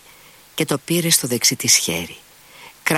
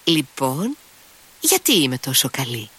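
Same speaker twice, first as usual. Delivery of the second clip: Grushenka's tipsy babble, lightly raised; tipsy babbling; 6 semitones higher than usual. A narrator's reading. Drunk woman babbling to her lover, murmuring. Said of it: "Έτσι ψέλιζε η Γκρούσεκνα".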